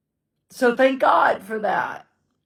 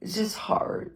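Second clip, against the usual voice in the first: whisper; 9 dB quieter than usual. Real, not acted. Alone in a quiet house.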